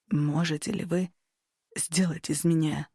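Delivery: a hint of a tremble, hushed; trembling voice. A narrator's reading. Captain timidly begs the sorceress to make him human, trembling. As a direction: ask it timidly, barely daring. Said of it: "дрожащим голосом произнёс".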